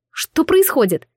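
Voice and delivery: startled cry of what is happening; alarmed question. A narrator's reading. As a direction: ask it in sudden alarm. Sudden pain in shoulder.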